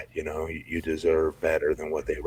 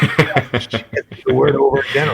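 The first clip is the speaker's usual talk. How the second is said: laughing; 8 semitones higher, 7 dB louder, much slower than usual. Real, not acted.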